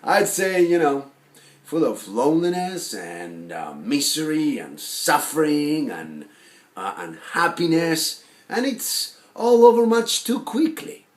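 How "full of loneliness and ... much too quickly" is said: projected, emphatic list, rising at the end; animated declaiming. Acted. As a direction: declaim it boldly, lifting the last phrase. Animated second take of monologue.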